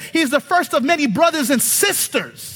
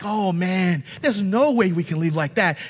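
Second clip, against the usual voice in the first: mock-daunted, lower voice; daunted reluctance; 4 semitones lower than usual. Congregation reading hard scriptures, daunted and reluctant. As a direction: play a reluctant reader giving up. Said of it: "it grates at us".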